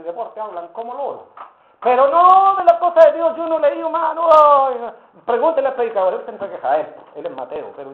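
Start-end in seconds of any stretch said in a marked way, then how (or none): 1.8-6.1 agudo y fuerte todo el rato, protestando; excusa gritada. Retold or imitated. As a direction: grita la excusa como hermano ofendido. Hermano excusándose, exaltado. (el hermano se excusa a gritos ante el pastor)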